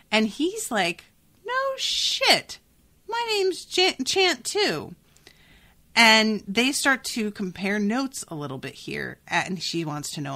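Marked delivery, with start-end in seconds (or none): 1.4-4.9 stunned disbelief. Retold or imitated. Cat stunned by the name.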